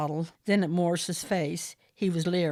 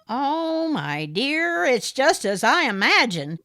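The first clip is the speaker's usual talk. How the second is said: high, loud smarmy gentleman voice; fawning over Aideen, the smarmy caller; Morris, oily suitor; 6 semitones higher, 5 dB louder, slower than usual. A narrator's reading. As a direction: purr it like a pushy suitor.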